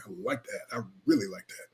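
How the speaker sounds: low, very soft appreciation; retold smitten murmur. Husband retelling his liking for wife's voice, hushed. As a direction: drop right down, savouring it.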